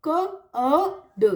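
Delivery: "क", long "अ", then "ड", piece by piece; sounded out, no R. Shown as a demonstration. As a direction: split curd into "क, अ, ड", leaving out r. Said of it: "बस र नहीं बोलना है".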